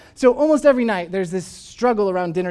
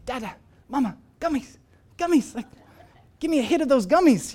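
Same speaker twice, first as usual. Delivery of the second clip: put-on toddler begging; 6 semitones higher than usual. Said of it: "and he'll say".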